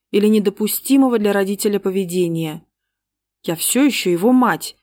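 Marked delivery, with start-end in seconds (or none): 3.4-4.8 shrill outcry. Acted. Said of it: "визгливо выкрикнула".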